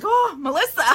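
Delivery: a teasing groan from the fans; mock exasperated viewers. Quoting viewers reacting to her sped-up video, mock groan. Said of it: "you guys were like".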